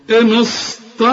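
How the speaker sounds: "إن است" thickened into dark s and t; mistaken heavy s. Retold or imitated. Teacher imitating the student's error, heavy s. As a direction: make "است" wholly heavy. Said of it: "كلها خطأ يا راجل".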